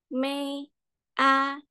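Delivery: MAY and A held high and level; first tone. Shown as a demonstration. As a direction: sustain may, a on one high note. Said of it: "untuk nada satu". (may, a dengan nada satu, tinggi dan rata)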